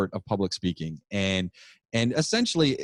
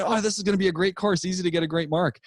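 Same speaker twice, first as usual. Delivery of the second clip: mock naive students; 7 semitones higher, faster than usual. Students' naive optimism, mocked.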